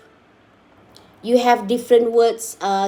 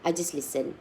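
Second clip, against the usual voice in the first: clueless student; 6 semitones lower, 9 dB quieter than usual. Retold or imitated.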